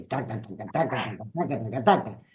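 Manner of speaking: low, soft rapid "taca taca" chatter; quiet chattering of tormenting little voices; muttered inner chatter. Retold or imitated. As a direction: mimic the nagging voices under your breath. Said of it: "son vocecitas torturantes".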